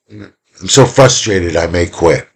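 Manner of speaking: slow, drawn-out frustration; acted frustration. Shown as a demonstration. Teacher showing intensity of emotion, slow mock frustration. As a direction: drag out the frustration, dropping at the end. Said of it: "We talked about the intensity".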